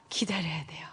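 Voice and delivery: hushed aside to the congregation; whisper. Real, not acted. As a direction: lean in and whisper it. Unvoiced aside. (회중에게 속삭이듯)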